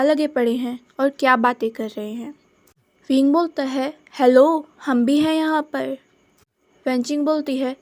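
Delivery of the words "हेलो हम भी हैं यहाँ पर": a louder call of hello to get noticed. Acted. Left out while others chat, he calls out loudly for attention. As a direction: break in and make them notice you.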